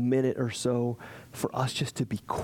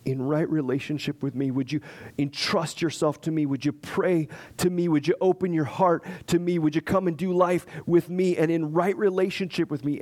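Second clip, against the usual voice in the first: rising preaching appeal; 3 semitones higher than usual. Real, not acted. Building sermon appeal.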